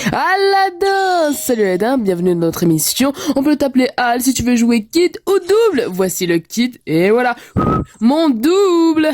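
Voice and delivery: hammy cartoon magic spirit; big showman spirit from a lamp; genie. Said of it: "le doublage du génie".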